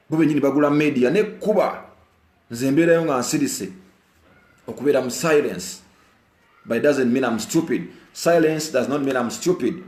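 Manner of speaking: loud and high; angry rant. Real, not acted. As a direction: insist hotly he is no fool. Heated rant continues.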